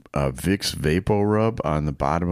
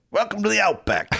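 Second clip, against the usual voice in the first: higher, hammed-up Australian accent; 13 semitones higher than usual. Trying again at his Australian accent for the co-host, a bigger Australian accent. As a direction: lean into the Australian Outback voice. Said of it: "Okay, that's better".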